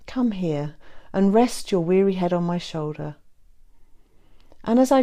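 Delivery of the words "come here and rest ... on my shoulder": tender whisper. Acted. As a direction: hush it tenderly. Lover invites her to rest.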